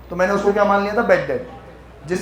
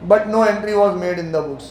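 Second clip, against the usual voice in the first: very slow, deliberate reading aloud; slow dictation; much slower than usual. Shown as a demonstration. Teacher reading the accounting question to the class, very slowly. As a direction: read the question out word by word.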